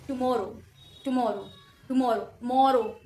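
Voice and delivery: टुमारो with the weight on the middle syllable मा; light टु, firm मोरो, spaced repeats; stress on मोरो. Shown as a demonstration. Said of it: "मोरो पे ज्यादा sound आ रहा है".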